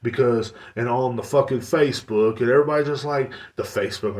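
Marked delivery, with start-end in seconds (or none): 3.6-4.2 mock boomer. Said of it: "I'm a boomer".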